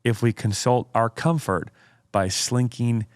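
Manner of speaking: slow, deliberate oratorical reading; dramatic quote reading. Acted. Host reads Spurgeon's quote to co-host, dramatic oratory. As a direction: read it out with weighty pauses.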